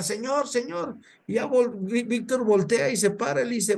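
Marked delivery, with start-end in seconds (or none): 0.0-1.0 calling out. Retold or imitated. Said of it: "la mujer le empieza a gritar".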